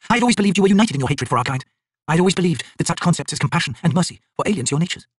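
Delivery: a hint of a proud tusked mother sneering; Jagad mother, mocking. A narrator's reading.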